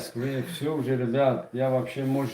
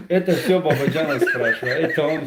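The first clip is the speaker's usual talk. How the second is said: laughing; 2 semitones higher, 5 dB louder than usual. Real, not acted. Laughs about not knowing Tajik.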